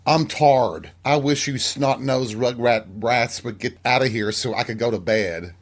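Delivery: lightly voiced Southern grandma grumbling at the brats; Southern grandmother. Grandmother shooing snot-nosed kids so she can sleep, Southern accent. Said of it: "and she would say".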